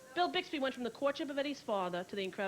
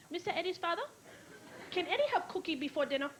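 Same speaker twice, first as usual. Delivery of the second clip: mock Asian housekeeper; 4 semitones higher, faster than usual. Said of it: "They'd have a whole episode".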